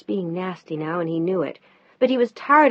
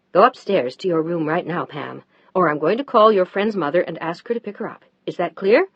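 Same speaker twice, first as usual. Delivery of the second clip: louder, firm command; louder stern stepmother; stern order; 5 dB louder than usual. Acted. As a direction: lay down the law. Mel ordering Pam upstairs.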